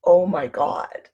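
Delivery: slow, dull "Oh my God," said without wonder; a bored, dragged "Oh my God,"; flat oh my God. Shown as a demonstration. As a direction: drag "Oh my God," out flatly like a sigh. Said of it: "the difference between".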